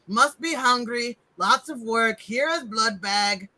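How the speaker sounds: lightly voiced servant in broken speech; plodding, understated henchman voice; Igor. Game master plays servant offering a blood bag, lightly voiced henchman. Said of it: "and he says".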